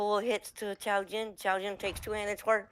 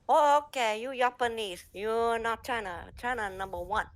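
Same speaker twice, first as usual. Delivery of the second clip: higher, louder broken-English taunt; Ping Ting voice; 4 semitones higher, 4 dB louder than usual. Retold or imitated. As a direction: boast like a cocky rival in broken English. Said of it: "And she goes".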